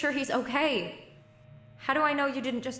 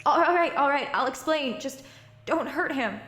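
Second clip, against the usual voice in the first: loud, high, hurried surrender; frightened pleading yield; panicked giving in; 3 semitones higher, 4 dB louder than usual. Acted. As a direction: give in fast to save him. Captor threatens grandfather.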